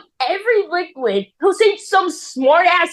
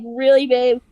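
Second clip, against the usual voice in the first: understated mock-mad, at usual pitch; retold exasperation. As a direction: act out being mad without raising the voice. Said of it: "I was, like, so mad".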